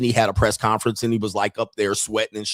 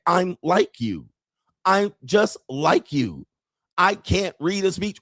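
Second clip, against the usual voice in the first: drawn-out, higher-pitched mimicry; slow mock imitation; 5 semitones higher, slower than usual. Streamer mocks a politician's slow speech, drawn-out imitation. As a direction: stretch each word out, mocking a slow speaker. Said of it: "why is he talking like that?".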